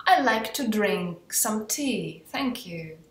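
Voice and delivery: slow, careful English sentence; slow model sentence. Shown as a demonstration. Teacher modelling the verb drink slowly. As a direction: lay out every word for students. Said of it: "modelling English example".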